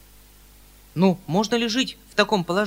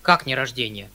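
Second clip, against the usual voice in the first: taken-aback cry; 5 semitones lower, 3 dB louder than usual. Acted. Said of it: "крикнул дядя, оторопев".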